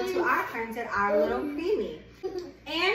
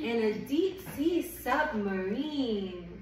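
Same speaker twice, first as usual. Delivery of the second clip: gentle picture-book read-aloud; reading to a child. Acted. Reads picture book to baby.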